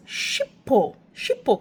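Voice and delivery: "Shipho" opening on a hushing sh; "Shipho" with sh in place of the s; mispronounced name. Shown as a demonstration. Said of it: "the way that they say it was".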